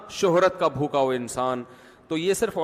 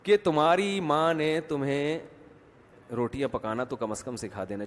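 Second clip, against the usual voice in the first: calm, unhurried reproach; 2 semitones lower than usual. Retold or imitated. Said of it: "لیکن بڑے آرام سے". (آرام سے، ٹھہر ٹھہر کر طعنہ)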